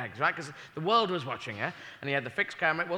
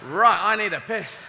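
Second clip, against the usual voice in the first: high, slow groaning complaint; slow, high aching grumble; stiff aching astronaut; 6 semitones higher, 4 dB louder, slower than usual. Acted. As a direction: moan about your back as you climb out, pitched up. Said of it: "land on the moon and go".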